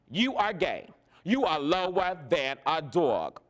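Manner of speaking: mother's drawn-out, deliberate pronouncement; imitating mother. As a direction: spell out the insult word by word, mimicking mother. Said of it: "She said".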